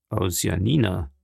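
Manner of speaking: understated, low puzzled query; puzzled echo. Acted. Journalist echoing his friend's claim, mildly puzzled.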